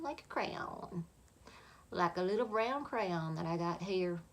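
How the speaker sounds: slipping into a Southern US accent; accidental Southern accent. Real, not acted. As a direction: let a Southern twang creep in. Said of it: "don't know where that Southern accent came from".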